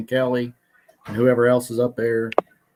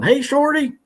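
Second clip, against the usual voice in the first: retold yell; 13 semitones higher than usual. Retelling a kid getting off the bus, mock yell. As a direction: imitate a kid calling out from afar. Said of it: "he started yelling".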